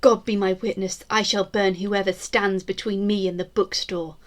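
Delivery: a proud Tudor queen vowing vengeance, grand and measured; defiant queen's proclamation. Acted. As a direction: declaim it like a queen swearing she shall not fall. Mock-queen vow about the bookstore.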